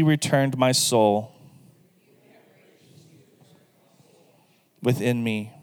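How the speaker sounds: prayer read phrase by phrase with pauses; leading a room line by line, unhurried; call and repeat. Shown as a demonstration. Pastor leads the congregation in repeating the prayer, phrase by phrase. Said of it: "repeat it after me".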